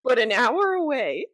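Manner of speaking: loosely imitated New Jersey accent; a rough stab at a Jersey accent; lightly put-on New Jersey accent. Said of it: "That was supposed to be New Jersey".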